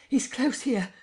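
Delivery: breathless shout; crying out. A narrator's reading. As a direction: alert the crowd he's near. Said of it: "he cried".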